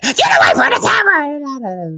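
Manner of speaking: high, loud imitation of a Philly woman hollering. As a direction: holler it like an angry mock scolding. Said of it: "she just hollers at me".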